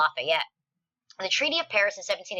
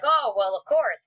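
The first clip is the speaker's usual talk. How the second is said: louder, rising mock "of course"; smug Americans; 4 semitones higher, 5 dB louder, slower than usual. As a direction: scoff at the idea that it was a given. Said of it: "a lot of Americans are like".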